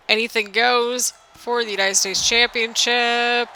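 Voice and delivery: slow, sing-song announcer lilt; sing-songy. Acted. Narrating a Survivor Series match for viewers, sing-songy and slow. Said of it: "doing it in the sing-songy voice".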